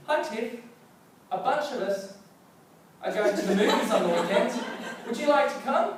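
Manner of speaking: high, bright, laughing invite; nervous teen ask. Retold or imitated. Shy teen asking Tiff to the movies, high and giggly.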